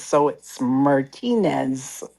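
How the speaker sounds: Martinez slow and soft, Spanish way. Shown as a demonstration. Explaining to listeners, Martinez slow in Spanish. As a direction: Martinez said slowly and carefully. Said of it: "they say Martinez".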